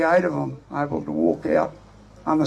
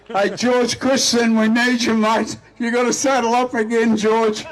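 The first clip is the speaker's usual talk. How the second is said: tag calling out; 4 semitones higher than usual. Real, not acted. Calling out to a named politician.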